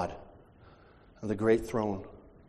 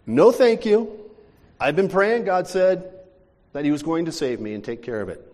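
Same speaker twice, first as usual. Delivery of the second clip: smug refusal; 3 semitones higher, 4 dB louder than usual. Retold or imitated. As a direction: decline sweetly and smugly. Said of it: "roof man refuses again".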